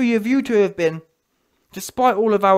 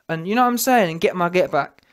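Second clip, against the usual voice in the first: ordinary talk, nothing marked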